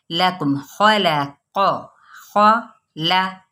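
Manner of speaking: खलक very slowly with heavy qaf; full heavy qaf. Shown as a demonstration. Teacher shows खलक with heavy qaf, very slow. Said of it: "कॉफ पुर पढ़ते हुए".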